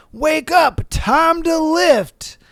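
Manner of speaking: loud, slow gym-bro yell at his own legs; mock yell. Guy at the squat rack yelling at his legs, mock yell. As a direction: bellow it to wake up sleeping muscles. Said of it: "slapping his legs and yelling".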